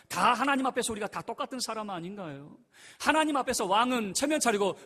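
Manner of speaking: high and loud sermon voice; fiery preaching. Acted. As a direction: preach it out to the whole church. Preaching at full force. (열정적으로 외치는 설교)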